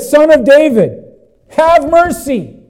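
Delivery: high, loud calling plea; desperate cry. Acted. Blind men begging Jesus for mercy, desperately crying out. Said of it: "It shows us their desperation".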